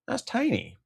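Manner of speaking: high, soft, squeaky little voice; mock tiny voice. Mocking a tiny amount in a high little voice. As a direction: make it sound small and high.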